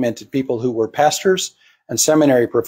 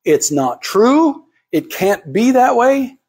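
mocking objector; 5 semitones higher than usual. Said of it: "good, honest preachers out there say".

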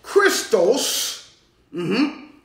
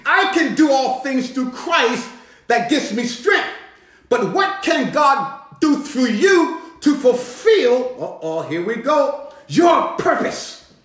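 full-force preaching. Acted. Preacher urging the church, preaching at full force. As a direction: drive it home to the church.

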